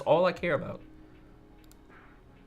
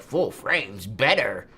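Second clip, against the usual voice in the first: slow, drawn-out smug mimicry; mock know-it-all; much slower than usual. Imitating photographers arguing gear, slow smug mockery. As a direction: mimic a gear snob pronouncing it. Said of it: "argue with people and be like".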